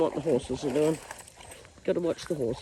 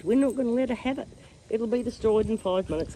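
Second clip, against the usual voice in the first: lightly voiced dog, a bit higher; dog's verdict; 5 semitones higher than usual. Owner voices her dog refusing to share, lightly acted. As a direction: speak up for the pet. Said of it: "He says".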